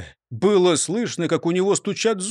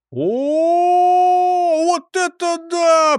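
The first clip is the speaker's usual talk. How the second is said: high, loud astonished crowd gasp; amazed cry; 12 semitones higher, 6 dB louder, much slower than usual. A narrator's reading. Crowd watching the jump, amazed cry. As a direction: gasp out in wonder.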